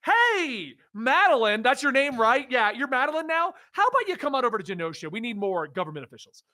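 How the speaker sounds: lightly voiced pushy recruiter; mock recruiter. Podcaster mocking Genosha recruiting Madeline, breezy.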